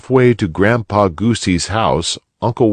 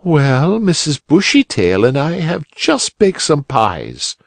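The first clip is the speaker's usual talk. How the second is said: a lightly higher, friendly lady neighbour; kindly muskrat lady; 8 semitones higher than usual. A narrator's reading. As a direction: offer the pie sweetly. Muskrat lady offers pies.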